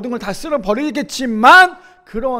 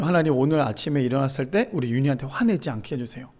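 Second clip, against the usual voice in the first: low, softened private prayer; retold prayer; 6 semitones lower, 5 dB quieter than usual. Parent prays not to get angry at child, hushed prayer. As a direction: pray it quietly, pitched down. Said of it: "제가 매일매일 기도".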